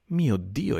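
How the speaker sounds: startled, rising cry of recognition; a quick amazed outburst; sudden exclamation. A narrator's reading. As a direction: burst out in surprise. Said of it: "esclamò improvvisamente".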